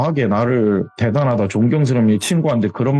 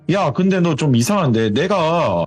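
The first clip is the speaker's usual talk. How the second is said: higher-pitched retold challenge; suspicious questioning; 4 semitones higher than usual. Jihye asking how Suji knew about the ring, suspicious. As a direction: question her back, mildly accusing. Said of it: "이렇게 되레 물어봤대요".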